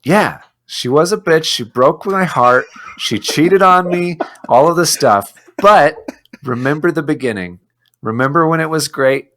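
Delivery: mock-impassioned defence of an old flame; wounded ex-lover. Fan likening Star Wars to a first love, lightly acted wounded lover. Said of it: "it's like your first love".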